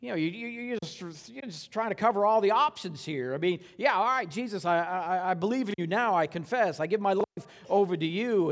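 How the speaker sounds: mock skeptical. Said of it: "I'm kind of thinking".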